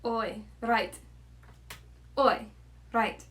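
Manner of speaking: tentative South African attempt; South African accent. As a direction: test the South African vowels word by word. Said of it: "Let me just find South African accent".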